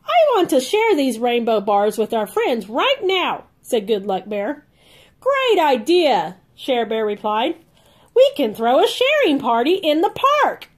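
lively storybook read-aloud for little ones; reading to children. A narrator's reading. Aunt reading a Care Bears book to kids, bright and lively. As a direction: read it like a bedtime picture book.

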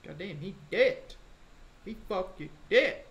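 very high startled outburst; surprised. Real, not acted. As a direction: react in shock to the kill. Enemy vanishes, then dies.

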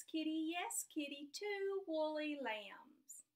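slow, sing-song storybook read; reading to children. Acted. Teacher reads a rhyming story to her class, sing-song. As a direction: read it out slowly, like a picture book at snack time.

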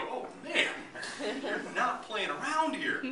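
high, airy laugh through the words; a laughing, impressed aside. Retold or imitated. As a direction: laugh while admitting they mean business. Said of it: "and we go".

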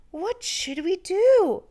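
put-on anxious children's cry. A narrator's reading. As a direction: cry out in alarm like small children. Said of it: "The children cried out".

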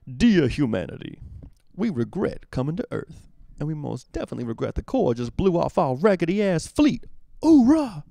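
rowdy marine shouting a victory cry; loud gung-ho soldier. Acted. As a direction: belt it out like a cocky soldier. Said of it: "my Halo three quote".

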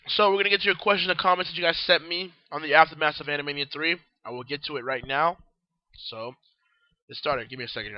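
groggy, worn-out hoarse voice. Real, not acted. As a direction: speak with a voice nearly gone. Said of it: "my voice is kind of, uh, groggy, and I'm losing my voice".

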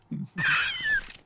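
very high squealing laugh; hysterical laugh. Real, not acted. Streamer baffled by the overlay, squealing laugh.

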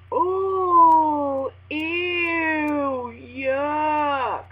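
high, drawn-out ew yuck; squealing grossed-out oh ew yuck; mock disgust. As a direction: recoil in disgust. Disgust at caller.

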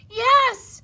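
high, loud yell; piercingly high mouse shout. A narrator's reading. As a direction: yell it back emphatically. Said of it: "Mouse yelled".

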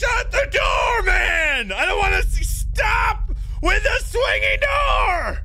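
high, loud frightened pleading; panicked shouting. Real, not acted. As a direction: beg in a panic, near tears. Panicking at swinging door.

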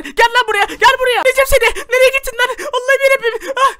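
furious challenge yelled into the dark; furious shout. Acted. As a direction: yell it at the monster, high and loud. Raging at the monster.

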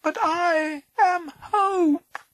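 high, slow faint voice; faint whisper. Acted. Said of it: "whispered the little voice faintly".

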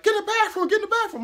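high, loud, frantic repeated shout; panicked yelling. Retold or imitated. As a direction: scream it at your friend in a panic. Friends panicking, yelling at him.

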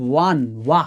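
ওয়ান broken down to ওয়া, stressing the ওয়া sound; pronunciation demo. Shown as a demonstration. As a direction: isolate ওয়া from ওয়ান for students. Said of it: "এদের উচ্চারণ করো তো দেখো". (ওয়ান ভেঙে ওয়া ধ্বনি আলাদা করে বলা)

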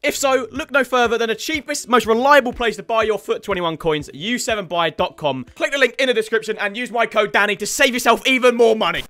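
brisk, punchy promo voice; lively YouTube ad patter; sponsor ad read. Acted. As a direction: pitch the deal to viewers. Reads a sponsor ad.

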